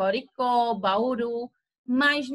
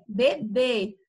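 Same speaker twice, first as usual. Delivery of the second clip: louder, stressing the end of vatapá, café, bebê; final syllable stressed; 3 dB louder, slower than usual. Shown as a demonstration. Teacher showing students the strong final syllable, stressed. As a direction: hit the last syllable of each word: vaTAPÁ, caFÉ, beBÊ. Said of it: "ao final ela vai ter um som mais forte".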